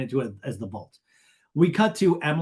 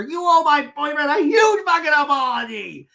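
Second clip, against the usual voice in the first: high, loud monster shriek; hammed-up screaming impression; Shannon; 12 semitones higher, 6 dB louder than usual. Shannon monster demanding an apology, mock scream. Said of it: "it's like the Shannon monster".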